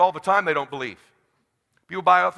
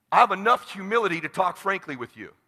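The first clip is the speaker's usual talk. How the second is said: normal talking voice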